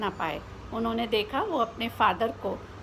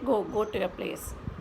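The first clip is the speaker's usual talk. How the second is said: stern dismissal; 3 semitones lower, 4 dB quieter, much slower than usual. Acted. Teacher dismissing late boy.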